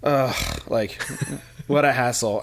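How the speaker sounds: mildly exasperated groan, then a laugh; understated hassled sigh; retold annoyance. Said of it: "my reaction was like".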